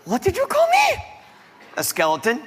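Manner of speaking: high, shrieked mock offence; outraged diva. Vain skeleton just called a skeleton, outraged diva. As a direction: squeal it in affronted disbelief.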